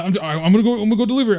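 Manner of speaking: high, flustered imitation of a teammate; mock panicky excuse; flustered retold reply. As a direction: stammer it high like a frazzled friend.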